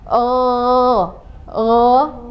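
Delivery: guttural oh; upper throat gho. Shown as a demonstration. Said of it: "seperti ini".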